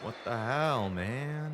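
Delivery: jumpy, startled exclamation; startled outburst. Real, not acted. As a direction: react like you just got jump-scared. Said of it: "Made me jump".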